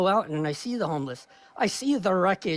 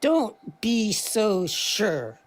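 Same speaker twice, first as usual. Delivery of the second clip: Jordan Peterson voice; 3 semitones lower, much slower than usual. Retold or imitated. Continuing the Peterson impersonation.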